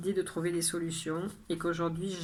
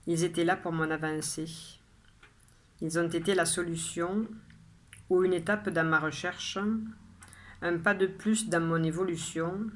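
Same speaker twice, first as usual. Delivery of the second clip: measured poem reading, phrase by phrase with pauses; poem recitation. Acted. Poet shares today's poem with viewers, measured recitation. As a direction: recite your poem clearly, letting each line settle. Rereads the poem a third time.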